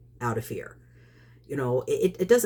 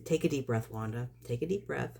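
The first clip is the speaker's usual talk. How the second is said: softer talk to oneself; self-calming; 3 semitones lower, 7 dB quieter than usual. Real, not acted. Woman reins herself in mid-rant, quiet self-calming. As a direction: drop the volume to steady yourself.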